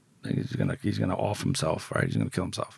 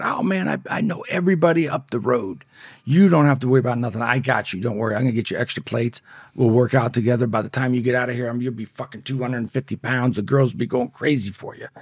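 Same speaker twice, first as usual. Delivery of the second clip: raised, lively buddy-buddy patter; retold smooth-talking inmate; 4 semitones higher, 5 dB louder than usual. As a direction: imitate a hustler reassuring the new kid. Predator's reassuring pitch, retold.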